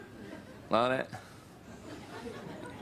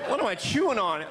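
mock queasy; 9 semitones higher than usual. Sick after White Castle.

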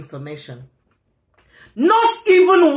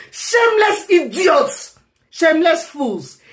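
angry insult; 6 semitones higher than usual. Real, not acted. Insulting mockers in a rant.

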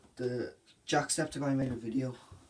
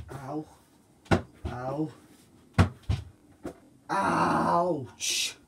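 ouch of pain; 4 dB louder, much slower than usual. Real, not acted. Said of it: "it's really sore".

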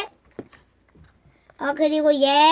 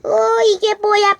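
put-on cutesy baby talk; 4 semitones higher, 4 dB louder, slower than usual. Toy character voice.

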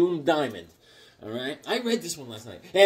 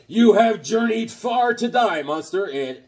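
dramatic villain read; 4 semitones higher, 3 dB louder, slower than usual. Acted. Reads comic dialogue dramatically.

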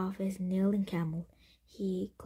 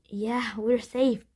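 louder, slow, relieved exclamation; 3 semitones higher, 6 dB louder, slower than usual. A narrator's reading. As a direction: let relief out, drawing the words out. Relief at being safe.

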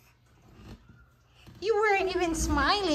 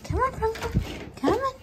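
higher, rising coaxing call; sing-song come-on to lure the dog; 7 semitones higher, 4 dB quieter, faster than usual. Real, not acted. Calling the dog out.

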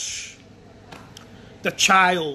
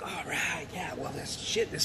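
whispered and much softer, savouring it; 4 semitones lower, 10 dB quieter than usual. Retold or imitated. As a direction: breathe it out secretly, as the pleased kid. Child quietly savouring applause.

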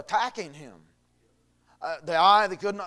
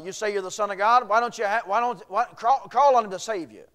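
mocking jeer; 2 semitones higher, 4 dB louder than usual. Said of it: "they railed on him and mocked him".

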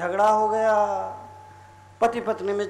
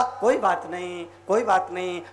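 gentle reassurance; 5 semitones lower than usual. Acted. Husband reassures apologising wife.

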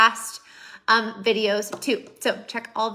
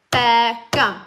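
Beckham, louder, two clapped syllables; clapping a name; 7 dB louder than usual. Shown as a demonstration. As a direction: call out Beckham, clapping each beat.

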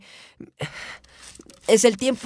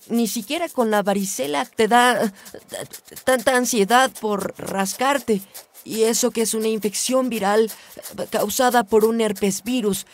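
agitated rant; 3 semitones higher, 4 dB louder than usual. Acted. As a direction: vent your irritation loudly at the incessant scratching. Ranting about man who scratches incessantly. (diatriba exasperada)

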